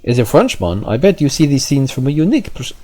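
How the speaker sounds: voicing the French official with a French accent. Player voicing French official in mild French accent. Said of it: "I think I tried to do his accent before".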